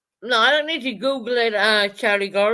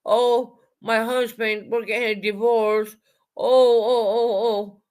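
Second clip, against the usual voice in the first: mock crying. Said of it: "telling her".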